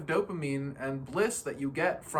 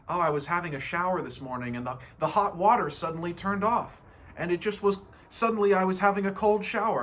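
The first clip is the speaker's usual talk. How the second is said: a hint of a fast, louder whiny complaint; complaining friend; 3 semitones higher, 4 dB louder than usual. A friend complaining about a cold shower, mild moan. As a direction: rush through the sob story of the shower. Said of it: "they'll be like".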